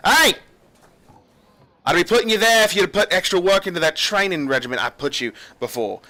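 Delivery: loud, high scolding retort; captain's retort. Acted. Captain snapping back at guards in the corner, loud. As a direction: throw it back at the slackers.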